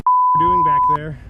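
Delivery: frightened. Real, not acted. Scared after escape.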